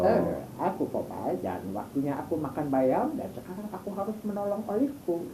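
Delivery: lightly voiced sailor, shaped with the mouth; a hint of the cartoon sailor; Popeye voice. Shown as a demonstration. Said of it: "lebih ke permainan mulut sih".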